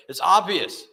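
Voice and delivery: as if it couldn't be plainer; retold insistence.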